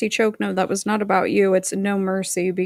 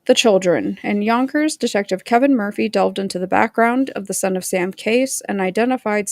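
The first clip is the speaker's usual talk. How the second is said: reading aloud. Real, not acted. Streamer reads a printed case section to viewers, read-aloud delivery. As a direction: read the printed account aloud, measured and livelier in tune.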